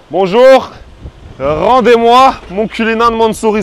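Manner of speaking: loud, high, drawn-out mock demand; gespielte Forderung. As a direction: call out a hammed-up, slow demand for the car. Playful demand at the impound.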